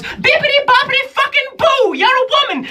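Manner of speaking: very high, loud, exasperated genie; sassy genie. Acted. Genie scoffing at the comic who never met one, very high. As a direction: snap at them as an annoyed genie. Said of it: "she goes".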